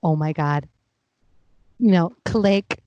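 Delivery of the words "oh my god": low, awed Oh my God; stunned. Retold or imitated. Recognizing her own voice on screen, low and stunned. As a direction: breathe it out low in disbelief.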